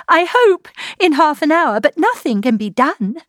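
high, anguished hopelessness; distraught, pitched high and swelling at the end; despairing. A narrator's reading. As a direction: lament that all is lost. Despairing outburst over the elopement.

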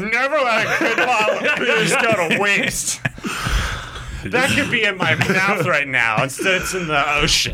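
a hint of a giggly, boozy sorority girl; drunk sorority girl. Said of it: "Why do I sound like a drunk sorority girl?".

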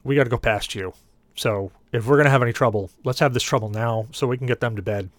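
lightly voiced tough guy; firm, squared-up warning; a hint of tough-guy bluster. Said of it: "in my best tough guy voice".

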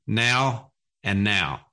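slow Philadelphia vowels, two words sounding alike; South Jersey-Philadelphia accent. Shown as a demonstration. Host trying his home accent on two words, South Jersey-Philadelphia accent. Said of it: "I'll try to get the accent right".

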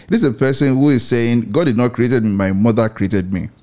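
usual speaking voice

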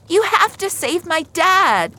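put-on high, loud child's pleading; desperate plea. Girl begging rescuer to save her father, desperate cry. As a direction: beg loudly in panic.

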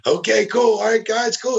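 high, bright mock cheer while snapping photos; mock cheerful. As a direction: play the eager photographer. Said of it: "you know, like".

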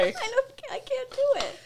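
high, giggly refusal through laughter; laughing protest. Real, not acted. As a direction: laugh while saying you can't do it.

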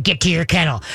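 "Get to your kennel" as a flat, firm order; stern command. Shown as a demonstration. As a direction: order the dog to its kennel without cheer. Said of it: "instead of".

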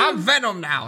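a hint of a puny would-be villain; Topher Grace. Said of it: "Topher Grace is in there like".

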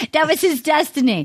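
hammed-up Boston accent. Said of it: "I'll stop my accent".

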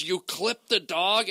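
slow, mildly aghast question; upset disbelief. Retold or imitated. Comic imitating the upset producer, slow upset disbelief. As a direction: draw out a mock-appalled question. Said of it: "she got more upset".

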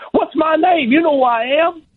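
very high, insistent champ's challenge; Muhammad Ali. Retold or imitated. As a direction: demand recognition in a high-pitched boxer impression. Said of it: "Ali says it again".

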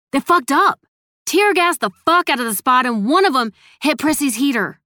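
loud high agitated telling. Acted. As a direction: spill it out in distress.

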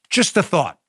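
ordinary delivery

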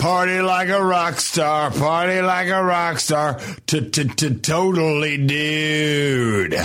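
slow, dopey Valley party-dude drawl; Valley Girl voice. Acted. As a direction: stretch it out like a spacey California party kid. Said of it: "maybe the Valley Girl, like this".

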